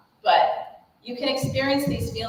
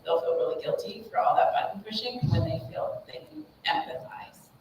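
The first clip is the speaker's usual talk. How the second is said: whispering the whole line with no voice; whispered aside; 5 dB quieter than usual. Real, not acted. Parent coach confiding to viewers, whispered. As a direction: let it drop to a breathy whisper, like a secret. Aside about guilty kids.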